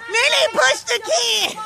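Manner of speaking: slow, laughing call across the yard; laughing shout. Real, not acted. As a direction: shout it while cracking up. Repeated through laughter.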